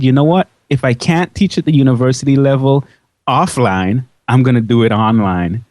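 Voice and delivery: usual speaking voice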